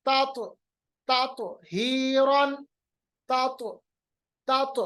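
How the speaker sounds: तात with the final t bounced as "tato"; qalqalah. Shown as a demonstration. Teacher drills the returning sound, तात with bounced t. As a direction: echo the t in तात, stretch हीरन. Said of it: "आवाज वापस लाइएगा".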